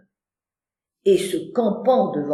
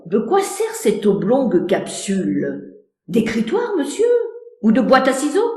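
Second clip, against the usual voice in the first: curious; faster than usual. Acted. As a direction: wonder aloud, nosy.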